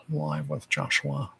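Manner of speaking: quiet slowed repeat of the title. Shown as a demonstration. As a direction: drop the level and ease the pace on the second read.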